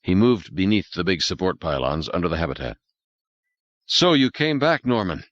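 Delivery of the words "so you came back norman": relieved surprise, voiced as Beth; Beth over intercom. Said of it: "Beth said over the intercom".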